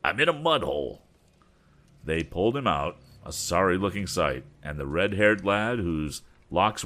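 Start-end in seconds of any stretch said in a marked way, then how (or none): 0.0-1.0 pleading. Acted. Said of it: "pleaded Andy".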